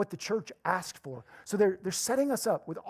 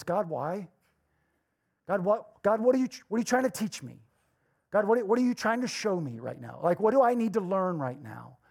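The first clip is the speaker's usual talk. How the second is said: louder, fast frustrated plea; exasperated prayer; 3 dB louder than usual. Retold or imitated. Driver stuck in a hot car asking God why, exasperated. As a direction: demand answers from God. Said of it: "you begin to say things like this".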